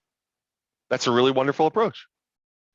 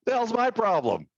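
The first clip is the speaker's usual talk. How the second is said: frustrated agent; 11 semitones higher than usual. Pretend.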